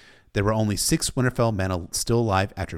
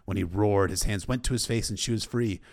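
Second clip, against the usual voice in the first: ordinary delivery, nothing marked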